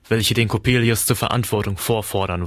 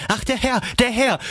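very high wail of alarm; maid's cry; 14 semitones higher than usual. A narrator's reading. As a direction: cry out high in shock, without much volume. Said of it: "Das Dienstmädchen schrie".

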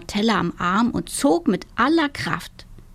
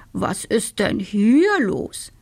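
rooster voice; slower than usual. Acted. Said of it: "fragte er".

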